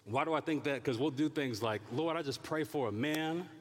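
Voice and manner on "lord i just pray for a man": higher, earnest imitation of someone praying for a man; hammed-up pious prayer voice; mock prayer. Preacher imitating a hopeful single woman's prayer, mock earnest.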